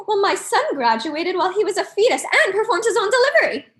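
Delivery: mildly hammed-up one-upping parent; a touch of bragging rivalry; competitive parent. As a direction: top the other parent's boast. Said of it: "can be some of the most competitive".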